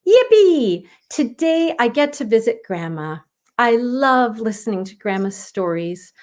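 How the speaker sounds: put-on a little girl thrilled about Grandma; excited child. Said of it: "Aubrey thought excitedly".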